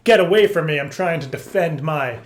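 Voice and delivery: a touch of a hiss, not confrontational; half-hearted cat warning; mock defensive. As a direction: shoo people off playfully. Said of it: "but more like a".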